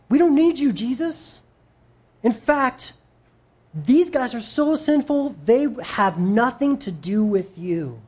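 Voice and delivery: high, sneering demon voice; preacher voicing the demon mocking the sinful crowd; scornful demon. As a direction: sneer at the sinners to sway Jesus. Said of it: "That's what this demon is putting out".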